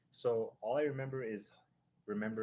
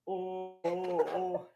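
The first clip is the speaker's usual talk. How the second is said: higher, louder frightened little cries; scared yelps; 9 semitones higher, 6 dB louder, much slower than usual. Retold or imitated. Little Kimo sliding into him on the drop, scared yelps. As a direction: yelp like a kid tipping sideways on a drop.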